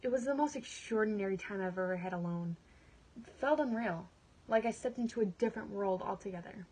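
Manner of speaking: earnest monologue, anger building to resolve; dramatic monologue. Acted. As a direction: perform it like a woman taking control of her life. Performs her dramatic monologue.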